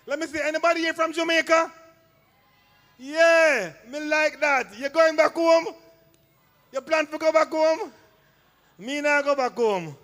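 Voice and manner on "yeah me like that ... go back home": light Jamaican patois, a little higher; Jamaican accent. Acted. Comedian teasing Jamaicans in the crowd in a Jamaican accent. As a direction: put on a Jamaican accent to tease. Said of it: "How me sound?".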